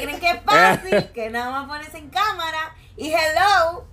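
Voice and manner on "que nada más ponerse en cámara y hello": higher, indignant rhetorical question; exaggerated whining to the audience; mock complaint. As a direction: ham up the suffering. Mock rant about sore throat.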